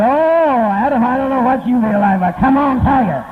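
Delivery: flirty Eve. Retold or imitated. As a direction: lure Adam in playfully. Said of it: "She said".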